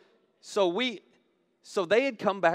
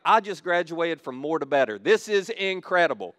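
excited; 6 dB louder than usual. Retold or imitated. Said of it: "and I was like".

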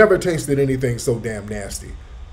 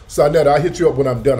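fast and loud, calling across to Sonetta; loud hurried call to a friend nearby; 5 dB louder, faster than usual. Real, not acted. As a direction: shout it quickly so she hears you from a distance.

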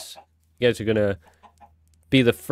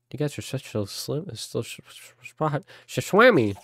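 stumbling over words; 3 semitones higher than usual. Real, not acted. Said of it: "That's what I was trying to say".

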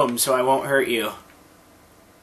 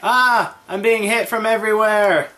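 panicked; 5 semitones higher, 3 dB louder than usual. Real, not acted. Under fire in game.

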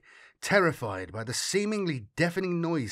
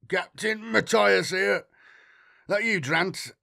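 rough, higher, slow just-woken voice; sleepy rough voice; 7 semitones higher, 4 dB louder than usual. Acted. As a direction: croak it out half asleep. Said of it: "heavy with sleep".

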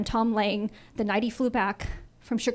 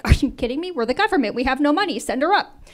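louder, higher, amused disbelief; mock incredulous boss; 4 semitones higher, 5 dB louder than usual. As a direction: toss it off like a cheerful boss. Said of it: "he's like".

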